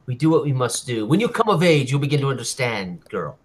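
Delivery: lightly voiced stern fatherly lecture; father figure. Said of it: "Sounds like a father".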